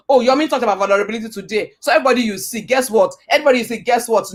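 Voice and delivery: fast, gushing mock gossip. Preacher imitating an oversharer, fast mock gossip. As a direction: rattle it off like a blabbermouth. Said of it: "That is not vulnerability".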